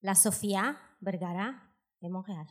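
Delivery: low, French-accented "La Sofía Vergara de Montréal"; deadpan French-accent translation; translated into French pronunciation. Shown as a demonstration. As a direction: say Vergara the French way, stressed on the end. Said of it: "Je vais vous traduire".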